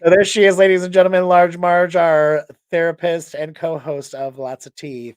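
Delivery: loud showman introduction; announcer hype. Real, not acted. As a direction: present her like a game-show host. Hosts introduce the co-host to the audience.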